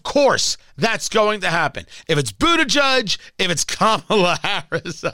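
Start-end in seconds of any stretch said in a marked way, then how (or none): 3.4-5.0 laughing. Real, not acted. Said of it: "I'm not doing it right".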